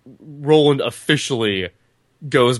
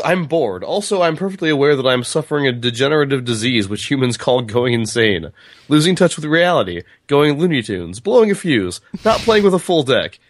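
raised, lilting read-aloud of a mad machine; reading a character's speech; 3 semitones higher than usual. A narrator's reading. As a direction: read the list out theatrically. Reads Blaine's speech from the book.

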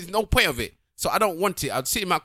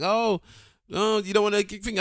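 man doing a woman's voice; 3 semitones higher, 3 dB quieter than usual. Retold or imitated. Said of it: "You did the voice again".

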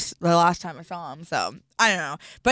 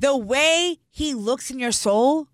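giddy, gushing; 4 semitones higher, 3 dB louder, slower than usual. Real, not acted. Gushing about meeting a rapper.

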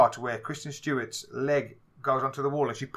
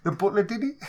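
mock cliché guess; 7 semitones higher, 3 dB louder than usual. Mocking the cliché reveal.

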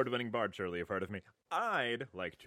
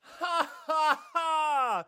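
hearty fake laugh; 5 dB louder, much slower than usual. Mock villain laugh in banter.

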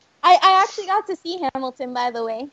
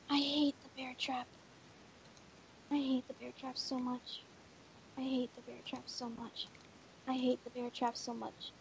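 low, quiet repeated grumble; muttering; 6 semitones lower, 21 dB quieter than usual. Real, not acted. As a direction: grumble it under your breath.

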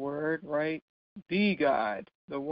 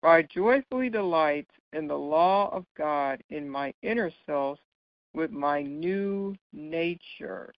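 scripture reading. Shown as a demonstration. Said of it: "I'm gonna read that now".

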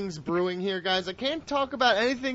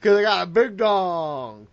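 mock Roman Reigns; 4 dB louder than usual. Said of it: "Roman's dong".

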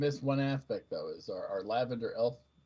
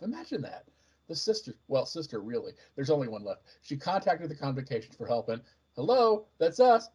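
put-on chatty young Padawan; 3 dB louder than usual. Padawan briefing the Jedi on a theft, chatty and excitable. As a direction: lively chatter with jumps in pitch.

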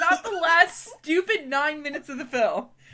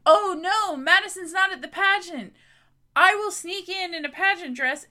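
a lightly voiced, slightly higher airhead Jules; mock Jules; 3 semitones higher than usual. Retelling the movie to a co-host, lightly mocking Jules. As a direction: play Jules as a giddy schemer, a hint only.

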